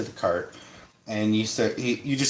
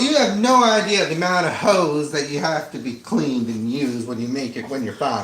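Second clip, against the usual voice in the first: hillbilly voice; 2 semitones higher than usual. Acted. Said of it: "You like my hillbilly voice?".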